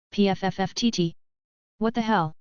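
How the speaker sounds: snorting back a laugh; sputtering through a laugh; stifled laughter. Acted. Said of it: "Kuroniko laughed out loud again".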